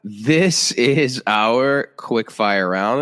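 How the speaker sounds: very slow, drawn-out mock announcer intro; game-show announcer. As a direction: introduce the round like a show host. Host announces a quiz segment.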